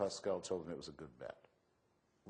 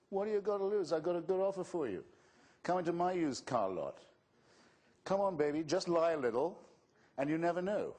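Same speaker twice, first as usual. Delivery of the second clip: much higher and louder hammed-up huckster pitch; mocking carnival-barker pitch, high and loud; sleazy used car salesman; 10 semitones higher, 5 dB louder than usual. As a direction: sell it like a pushy used car dealer wheedling a customer. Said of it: "don't talk to me like that".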